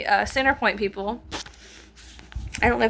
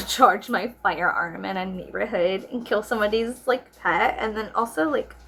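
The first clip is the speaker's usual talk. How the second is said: sarcastic mock praise.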